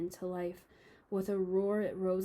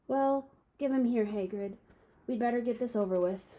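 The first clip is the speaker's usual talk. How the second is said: Dumbledore voice; 4 semitones higher, 5 dB louder than usual. Acted.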